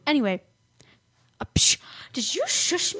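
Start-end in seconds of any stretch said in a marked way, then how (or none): 1.4-3.0 breathy unvoiced whisper. Real, not acted. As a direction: whisper it in mock outrage. Whispering after being shushed.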